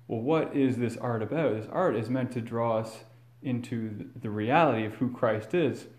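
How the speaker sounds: normal talking voice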